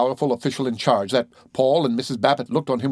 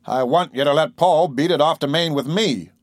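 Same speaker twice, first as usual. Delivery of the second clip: demanding; 3 semitones higher than usual. Acted. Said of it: "Babbitt demanded".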